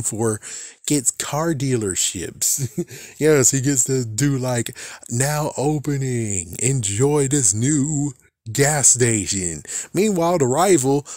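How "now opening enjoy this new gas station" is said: slow, lightly hammed-up store-opening announcer; mock announcer. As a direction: play a cheesy dealership ad, slowly. Mock car dealer announcement.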